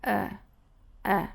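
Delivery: a bored, lazy "uh"; short uninterested schwa sound. Shown as a demonstration. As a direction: grunt a low-effort uh, as if bored. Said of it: "um som de quando a gente está entediado".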